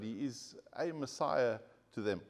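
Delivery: "a" stressed as "ay" before Messiah. Real, not acted. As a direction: lean on the word "a", said as "ay". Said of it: "he's not the correct Messiah".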